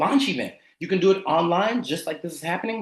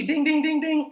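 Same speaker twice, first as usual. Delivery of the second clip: high, triumphant ding-ding-ding; winning bell; 8 semitones higher than usual. Acted. Coach celebrates Barbara being free, high bell imitation. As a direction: ring it out like a game-show win.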